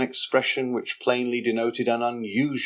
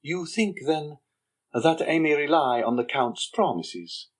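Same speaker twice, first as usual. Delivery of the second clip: higher young man's voice, mocking and slow; sly young Andrea; 6 semitones higher than usual. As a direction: needle the Major with sly contempt. Andrea questions the Major.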